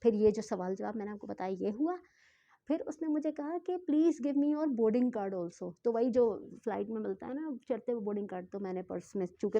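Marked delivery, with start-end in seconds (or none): 3.9-5.7 drawn out word by word; very slow, spelled-out English line; slow, careful quote. Shown as a demonstration. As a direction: slowly repeat the officer's request. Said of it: "आहिस्ता-आहिस्ता आप लोग को इसलिए बता रही हूँ".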